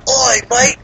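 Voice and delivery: high-pitched mock British "mate" greeting; mock British accent. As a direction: put on a hammed-up British accent. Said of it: "they talked with a British accent".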